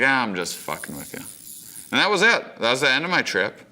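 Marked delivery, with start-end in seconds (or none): 0.0-1.2 softer, fast offhand tease; a touch of cheeky teasing; mild mock teasing. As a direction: brush it off as a joke. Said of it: "he's like".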